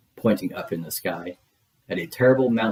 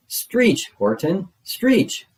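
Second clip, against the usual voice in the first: a far higher, louder squealing stretch; shrieking yell; 10 semitones higher, 4 dB louder, much slower than usual. A narrator's reading. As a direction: scream the order at the top of the voice. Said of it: "yelled the bug".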